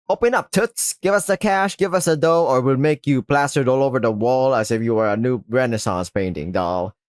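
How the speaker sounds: lightly voiced thug demanding cash; tough-guy shakedown, lightly hammed up; menacing shakedown thug.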